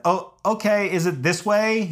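high, placating question; meek compliance. Retold or imitated. Hiker asking angry landowner the way, meekly. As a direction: act out timidly checking the way.

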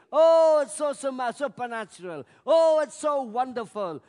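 mildly hammed-up wonderment; mock awe. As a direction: gush like someone dazzled by a miracle. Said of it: "so misguided in thinking".

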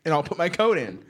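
hammed-up mock threat; mock angry threat. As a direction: retell the rage, half-joking. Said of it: "And I was like".

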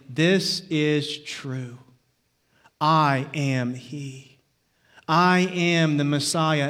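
slow, low and solemn, each phrase weighed; Jesus declaring himself. Acted. Jesus tells the religious leaders who he is, slow and solemn.

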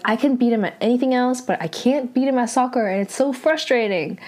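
fast, mildly frustrated retelling; mildly upset. Retold or imitated. The speaker grumbles about always losing at soccer, mildly upset. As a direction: retell his complaint in a quick, exasperated rush. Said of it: "pretty upset".

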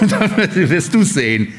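amused, slow comeback; laughing reply. Retold or imitated. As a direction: toss it back through a laugh. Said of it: "Und er sagt".

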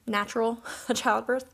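put-on "natural" then a laugh before "childbirth"; amused dismissive "natural childbirth"; laughing at the term. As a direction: laugh off the word "natural" mid-phrase. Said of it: "I really don't like that term".

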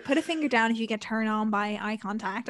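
light imitation of an American accent; reading the TikTok prompt like the American girl. A light American accent. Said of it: "I don't know why I'm doing that accent".

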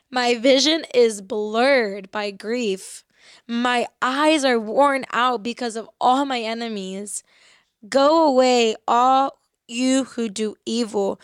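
emphatic, slow Bible reading; scripture reading. Acted. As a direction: read each line slowly and give it weight, as if from the pulpit. Reads a psalm aloud.

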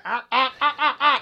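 high, loud bursts of laughter; laughing. Real, not acted. Friend cracking up at the smoke-break bit, laughing. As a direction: crack up at the joke.

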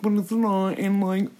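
halting mock-tearful imitation; his apology voice. Mocking his apology to Tati, halting. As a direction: trail on in a fake apology voice. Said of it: "this is literally how he talks".

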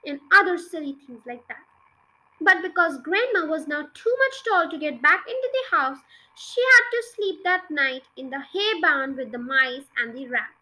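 put-on reading a children's book aloud; story narration. A narrator's reading. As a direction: tell it like a bedtime story. Reads a children's book chapter.

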